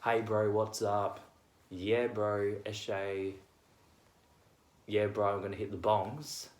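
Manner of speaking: Aussie eshay slang, laid-back; Aussie eshay slang, chill bro talk. Retold or imitated.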